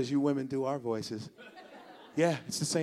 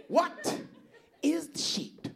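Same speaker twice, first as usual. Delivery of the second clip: high confused voice; 12 semitones higher, 4 dB quieter, slower than usual. Retold or imitated. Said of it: "You're like".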